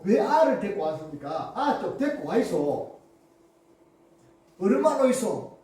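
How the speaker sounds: mildly acted dialect scolding of parents; mock scolding. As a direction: grumble as the rebuking disciples, only lightly heated. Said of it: "이렇게 막 꾸짖으면서". (살짝 꾸짖는 사투리 말투)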